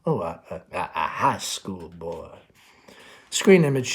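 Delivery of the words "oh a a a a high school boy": a touch of let-down, words sinking; disappointed. Acted. Mother hearing about the boy, let down and trailing off. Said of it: "Amanda disappointed".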